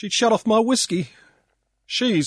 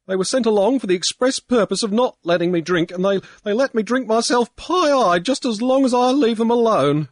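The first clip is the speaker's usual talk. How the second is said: high, loud tearful ranting; blubbering drunk; 6 semitones higher, 6 dB louder than usual. A narrator's reading. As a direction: blubber out your grievance. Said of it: "Pankburn was blubbering".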